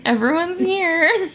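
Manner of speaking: laughing. Real, not acted. Laughing fit over special guests.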